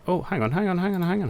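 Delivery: high, urgent, repeated "hang on"; sudden realisation. Real, not acted. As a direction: catch yourself mid-thought, pitch jumping up. Suddenly notices something on screen.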